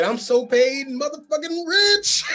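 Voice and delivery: high, slow laughing movie quote. Retold or imitated. Quoting Black Dynamite to friends, laughing. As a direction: savor the brag while laughing. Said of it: "He said".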